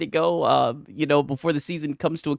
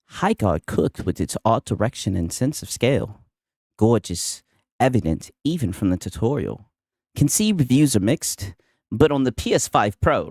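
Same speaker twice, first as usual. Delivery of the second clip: lower-pitched put-on accent of the podcaster, gushing like a reviewer; Nib accent; 6 semitones lower than usual. Streamer mocking Nib's post in a lower Nib accent. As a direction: read the praise in a lower mock podcaster accent. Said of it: "I had to do my Nib accent".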